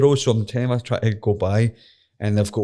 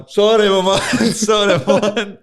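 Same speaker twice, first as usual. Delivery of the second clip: put-on high, slow, loud Scottish-accented apology; thick Scottish accent; 12 semitones higher, 8 dB louder, slower than usual. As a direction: nervously apologise to the police in broad Scots. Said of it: "I'm just pure Scottish accent".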